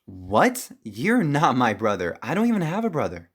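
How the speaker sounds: disbelieving, pitch jumping up; incredulous denial. Acted. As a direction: push back in stunned disbelief. Told a stranger is brother.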